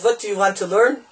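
lightly imitated Yiddish accent; thick Yiddish accent. Bobover Chassid phoning a learning partner, Yiddish accent. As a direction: put on a touch of Yiddish accent. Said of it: "in the stick Yiddish accent".

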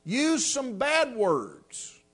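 put-on slow, earnest little boy's voice; a boy in a tent meeting explaining his prayer slowly; child's earnest words. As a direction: draw it out slowly like a worried child. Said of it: "He said".

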